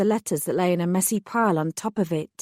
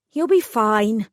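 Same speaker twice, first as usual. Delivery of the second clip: brisk; 3 semitones higher, 4 dB louder, slower than usual. Acted. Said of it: "I said briskly".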